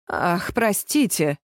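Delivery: slow, mocking sorry; drawn-out fake apology; insincere, amused; smirking apology. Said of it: "усмехнулся Фабио".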